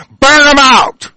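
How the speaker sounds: high, slow, drawn-out battle cry; furious shout. Real, not acted. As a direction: roar it like a rallying call to revolt. Ranting at listeners about gas prices.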